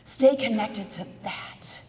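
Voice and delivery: unvoiced slow whisper. Shown as a demonstration. Motivational speaker to audience, whispered slowly. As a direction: breathe it out slowly and intimately. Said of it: "speaker whispers advice".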